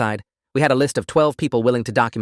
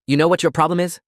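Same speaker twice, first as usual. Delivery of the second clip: angry challenge; 6 semitones higher, 3 dB louder than usual. Acted. Derek confronting narrator angrily.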